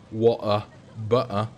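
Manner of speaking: Water and butter with glottal stops in place of the T sounds, in a mock British accent; dropped T's. Shown as a demonstration. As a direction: say Water and butter as wa'er and bu'er, swallowing each T. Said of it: "'cause I don't pronounce the T's".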